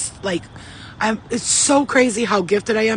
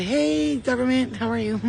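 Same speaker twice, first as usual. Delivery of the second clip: mock friendly greeting; 4 semitones higher than usual. Mock greeting to government watchers.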